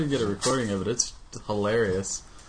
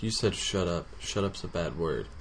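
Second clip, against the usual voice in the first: put-on prim toddler; 5 semitones lower, 7 dB quieter than usual. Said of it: "she's like".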